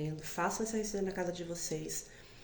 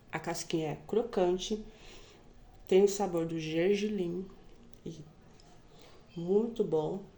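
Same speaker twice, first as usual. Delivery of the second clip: talking with a mouthful of bread; chewing while talking; mouth full. Real, not acted. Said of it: "Tô até falando de boca cheia".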